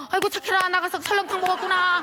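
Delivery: high, loud gushing praise; doting praise. Retold or imitated. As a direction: coo as if at your own little child. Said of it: "너무 귀엽고 이쁜 거예요".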